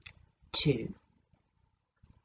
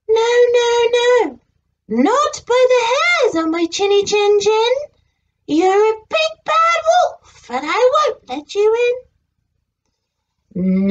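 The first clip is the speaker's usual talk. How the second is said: little pig voice; 3 semitones higher, 4 dB louder than usual. Acted. Pig answers the wolf.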